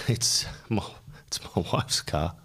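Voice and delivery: hushed, hesitant confession; half-voiced and halting, as if owning up reluctantly; retold sheepish mumble; embarrassed admission. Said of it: "in kind of embarrassment".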